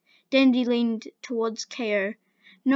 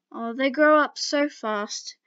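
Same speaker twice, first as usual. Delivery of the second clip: slow, dreamy sigh of a proud elder; dreamily; 2 semitones higher, slower than usual. Acted. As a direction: drift through it fondly, slowly. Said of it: "person dreamily said".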